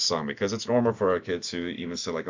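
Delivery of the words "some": "some" set apart with light emphasis; single out the word "some" gently; stress on some. Real, not acted. Trainer clarifying for volunteers, stress on "some". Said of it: "I'm emphasizing the word".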